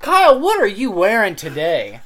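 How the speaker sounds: loud red carpet host voice; gushing red carpet chatter. Pretend. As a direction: greet him like a showbiz host. Mock red carpet interviewer.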